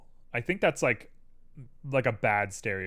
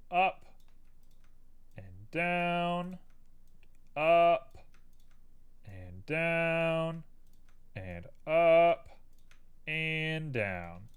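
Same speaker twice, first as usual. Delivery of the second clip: sing-song up and down; 4 semitones higher, much slower than usual. Real, not acted. Modeler moving vertices, playful higher sing-song chant. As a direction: chant the moves like a little tune.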